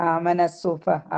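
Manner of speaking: slow recitation of ആമന സുഫഹ; slow Arabic tajweed reading; Quranic recitation. Shown as a demonstration. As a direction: recite it slowly with stretched vowels. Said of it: "ഹാക്ക് മദ്ദുണ്ട് ല്ലേ".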